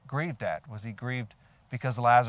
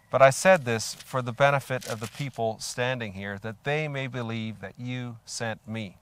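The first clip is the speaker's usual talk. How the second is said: prayer read out, loud opening, measured close; deliberate pulpit reading of a prayer; scripture prayer read aloud; 7 dB louder than usual. A narrator's reading. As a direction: call out to the Father, then continue steadily. Reads Jesus' prayer from scripture.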